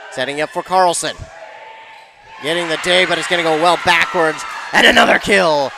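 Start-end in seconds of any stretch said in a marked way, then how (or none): 4.7-5.7 punched, louder play-by-play burst; excited kill call. Real, not acted. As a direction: hit the point call hard. Commentator calls a kill live.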